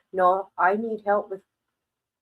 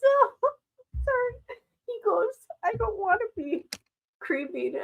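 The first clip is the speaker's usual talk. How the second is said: imitating dad; 13 semitones higher than usual. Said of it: "He says".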